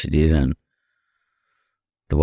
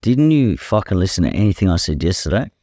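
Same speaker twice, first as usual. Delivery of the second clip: retold anger; 4 semitones higher than usual. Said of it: "And I go".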